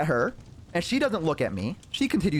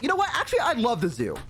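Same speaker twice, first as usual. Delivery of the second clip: higher, emphatic sudden agreement; feigned enthusiasm; 5 semitones higher, faster than usual. Retold or imitated. Nervous passenger placating his date, feigned enthusiasm. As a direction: play up a hasty change of heart. Scared, feigns love of zoo.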